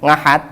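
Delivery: "Ngahat" opening with ng; ain as nga. Shown as a demonstration. Teasing Cilacap friend about Sunday, "Ngahat" with ng. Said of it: "Itu pakai nga gitu ya".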